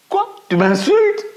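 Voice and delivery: high, loud indignant cry; outraged at being insulted; offended outburst. A narrator's reading. Girl shouting at the echo, indignant.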